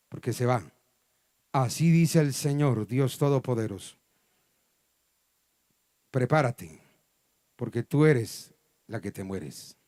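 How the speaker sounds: voice of God. Retold or imitated. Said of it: "sentía la voz de Dios que me decía".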